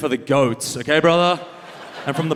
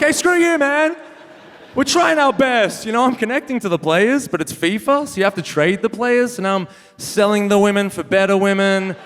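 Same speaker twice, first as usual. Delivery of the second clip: mock indignant; 4 semitones higher than usual. Gamer yelling back at the FIFA commentator, high mock indignation. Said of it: "I'm like".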